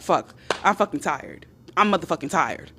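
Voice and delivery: tired, low and quiet grumble; worn-out, softly spent complaint; weary. Acted. Woman drained after arguing with her man, weary.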